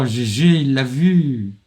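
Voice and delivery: drawn-out cheer; excited. Real, not acted. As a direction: stretch out the joyful GG. Teammate killed, cheering slowly.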